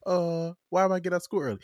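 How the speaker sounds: high, loud, rushed protest; kid's complaint. Retold or imitated. Acting out kids questioning their dad.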